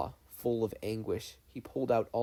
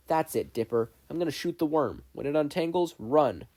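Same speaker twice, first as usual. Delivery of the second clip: urgent cry; 4 semitones higher, 5 dB louder than usual. Acted. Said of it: "cried Uncle Ford".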